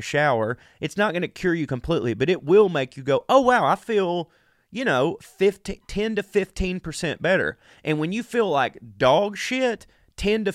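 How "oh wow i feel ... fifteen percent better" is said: mock relieved delight. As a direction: play the hungover guy suddenly perking up. Hungover self feeling relieved.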